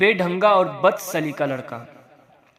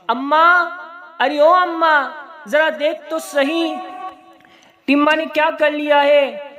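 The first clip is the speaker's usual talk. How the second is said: panicked call; 8 semitones higher than usual. Acted. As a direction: yell for help from the next room in a panic. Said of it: "नसीबुन घबराकर अपनी माँ को आवाज़ देती है".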